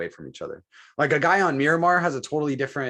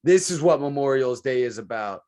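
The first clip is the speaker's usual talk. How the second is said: slow, louder and higher, mocking earnest patriots; mock solemn preaching; 4 semitones higher, 5 dB louder, slower than usual. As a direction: drag it out like a pious sermon, making fun of it. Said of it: "you have the guys that are like".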